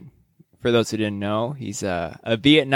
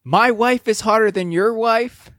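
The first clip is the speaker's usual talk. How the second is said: higher-pitched battle taunt, lightly yelled; mock yell; 7 semitones higher than usual. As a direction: call it out like a mock fight cry. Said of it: "He's yelling".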